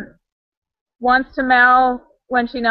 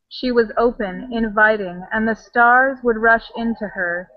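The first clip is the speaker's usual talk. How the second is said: reading aloud. Shown as a demonstration. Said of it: "I'm gonna try this again".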